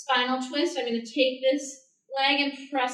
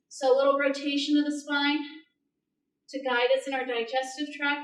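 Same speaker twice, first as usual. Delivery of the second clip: yoga voice. Shown as a demonstration. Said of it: "That's my yoga voice coming out".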